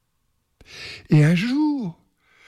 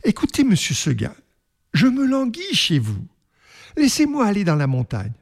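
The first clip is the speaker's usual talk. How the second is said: lightly voiced goat, quick and pleading; 6 semitones higher, faster than usual. The goat pleading with her master, lightly voiced. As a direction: beg to be let go, lightly. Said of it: "lui dit dans son patois".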